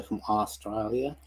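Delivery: a touch of Australian accent. Shown as a demonstration. Streamer greeting a viewer from Australia, light Australian accent. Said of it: "what was that accent?".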